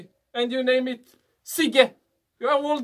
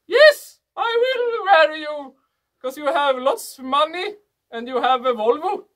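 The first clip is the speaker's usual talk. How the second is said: mock wife voice; 3 semitones higher, 4 dB louder than usual. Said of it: "And woman say".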